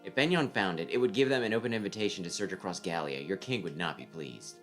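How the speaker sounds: cool, measured voice of a strategist; calm tactician voice. Acted. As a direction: lay out the plan coolly.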